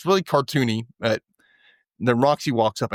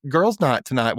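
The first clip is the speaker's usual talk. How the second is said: put-on sassy girlfriend voice; 5 semitones higher than usual. Retelling Joy on the phone to her friend, a light sassy girlfriend voice. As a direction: play at being the chatty best friend. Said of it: "Why am I talking like this?".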